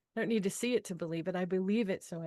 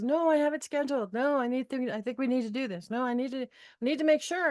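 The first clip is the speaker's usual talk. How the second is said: husband insisting; 3 semitones higher, faster than usual. Retold or imitated. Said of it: "And he says".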